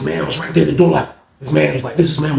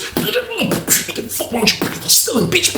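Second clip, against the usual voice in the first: angry yell; 4 dB quieter, much slower than usual. Retold or imitated. Yelling during the beating.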